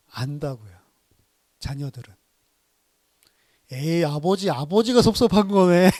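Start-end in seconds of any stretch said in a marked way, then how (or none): 3.7-5.9 put-on teasing children. Children tease their father.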